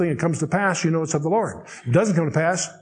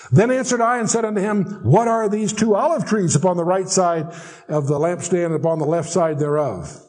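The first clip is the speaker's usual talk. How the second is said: scripture reading. Acted. Teacher reads the prophet's question about olive trees, scripture reading. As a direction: read it out formally, easing down toward the end. Reads verse eleven aloud.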